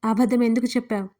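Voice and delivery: stern rebuke at normal volume; a firm, reproachful demand; scolding question. Acted. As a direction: scold her for lying. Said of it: "గద్దించాడు Surya".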